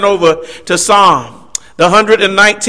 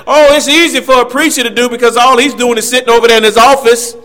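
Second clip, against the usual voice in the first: mock know-it-all; 4 semitones higher, faster than usual. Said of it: "that super smart brother say".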